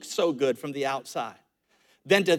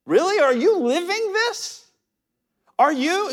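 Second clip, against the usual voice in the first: challenging question; 12 semitones higher than usual. Real, not acted. Pastor challenging congregation.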